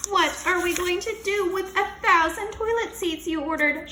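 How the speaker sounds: high, loud accusing shout; teacher shouting at Missus Master; angry shout. Acted. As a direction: blame her at full voice. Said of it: "shouted Mister Klutz".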